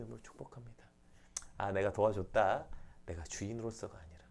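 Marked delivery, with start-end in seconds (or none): none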